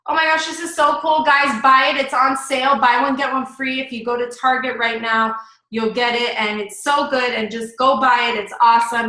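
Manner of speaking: mildly pushy, run-on product plug; pushy sales pitch. Shown as a demonstration. Coach showing the group what not to do, pushy sales pitch. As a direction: keep telling them to buy it. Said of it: "just telling you, buy it, right?".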